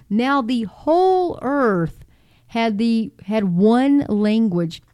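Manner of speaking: measured, deliberate Bible reading; Scripture reading. Real, not acted. Reading Genesis aloud to listeners, measured and deliberate. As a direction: read it out slowly, phrase by phrase.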